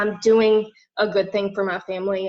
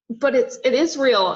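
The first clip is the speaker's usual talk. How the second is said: tearful; 4 semitones higher than usual. Real, not acted. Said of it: "just started crying on this".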